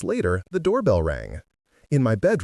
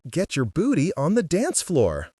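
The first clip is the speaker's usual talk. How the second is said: hollered; 7 semitones higher than usual. A narrator's reading. Friend shouting up to the window, hollering. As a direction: call up to her from the snow. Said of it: "Dory hollered".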